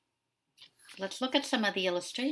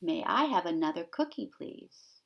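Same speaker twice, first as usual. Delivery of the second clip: polite duckling. Acted. Teacher quoting the duckling's polite request, lightly voiced. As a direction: ask nicely, trailing off. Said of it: "What does the duckling ask for".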